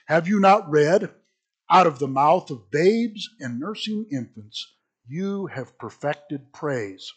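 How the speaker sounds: measured, emphatic Bible reading; scripture reading. Acted. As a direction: read the passage aloud with deliberate pauses. Resumes scripture reading after clearing throat.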